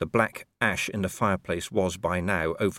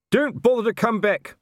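much higher, loud parting yell; shouting after; 5 dB louder than usual. A narrator's reading. Colon shouting after the departing watchmen. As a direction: hurl it after them. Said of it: "Colon shouted after them".

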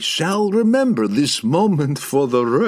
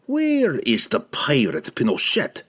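higher, slow, insinuating question; sly; 6 semitones higher, slower than usual. A narrator's reading. Pook tossing Laval a wicked look, sly question. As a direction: ask as if knowing the answer. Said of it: "he asked slyly".

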